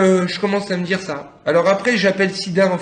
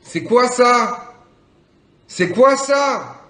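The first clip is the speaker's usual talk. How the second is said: drawn-out bewilderment; 9 semitones higher, 5 dB louder, much slower than usual. Real, not acted. Stoned, puzzled by the weed.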